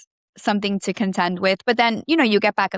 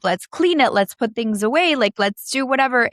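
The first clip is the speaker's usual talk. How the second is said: higher, a lightly voiced excited teenager; son's cheerful to-do list, pitched up; eager son; 4 semitones higher than usual. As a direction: bounce through it like a kid on move-in day.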